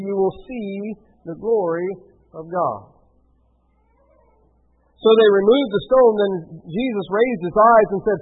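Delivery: measured Bible reading; scripture reading. A narrator's reading. Preacher reads Jesus praying to the Father, steady scripture reading. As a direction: read the passage out steadily.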